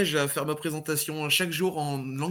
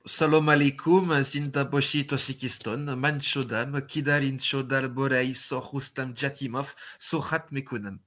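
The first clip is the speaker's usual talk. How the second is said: playful fake Tajik gibberish greeting; hammed-up made-up Tajik words; mock Tajik greeting. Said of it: "Qui vous accueille en tadjik".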